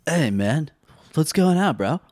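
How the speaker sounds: lightly voiced surfer dude; a hint of a laid-back surfer bro. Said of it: "Surfer Bro".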